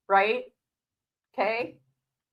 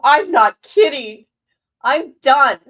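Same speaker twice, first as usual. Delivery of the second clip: mock firm insistence; 5 semitones higher, 11 dB louder, slower than usual. Dad's retort, voiced loud.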